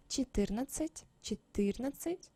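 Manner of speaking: четырнадцать with no d before the ц; silent d. Shown as a demonstration. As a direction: say четырнадцать twice softly, д left silent. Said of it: "without this sound as well".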